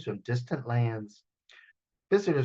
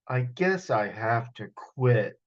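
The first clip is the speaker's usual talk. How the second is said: sighing; 4 semitones lower, slower than usual. Acted. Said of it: "Bo sighed".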